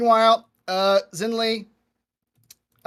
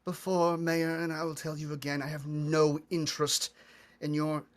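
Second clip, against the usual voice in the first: put-on amused elderly elf; 3 semitones lower, 9 dB quieter than usual. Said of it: "She chuckles and she says".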